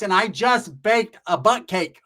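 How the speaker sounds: high, loud slow mock complaint; hammed-up disgusted mom; voicing Roach's mom. Mom voiced in story.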